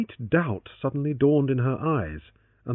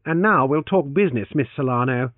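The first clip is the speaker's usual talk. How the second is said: changed tones; 3 semitones higher, 4 dB louder than usual. Acted. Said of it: "he said in changed tones".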